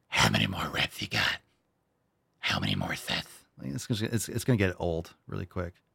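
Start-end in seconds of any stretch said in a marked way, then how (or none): 0.1-3.2 weird, breathy, whispered superhero voice. Imagining Batman as a gym spotter asking about reps: Batman voice. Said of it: "Is Batman gonna be talking all like this".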